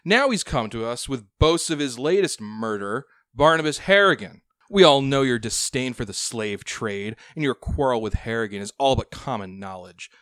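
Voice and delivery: smooth, sly scheming noble; oil every word with menace; oily voice. Acted. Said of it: "the most oily voice".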